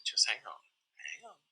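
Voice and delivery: whisper, hang on. Retold or imitated. Husband quietly telling his wife to wait, whispered. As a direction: soothe her in a hushed whisper. Calming wife during timeout.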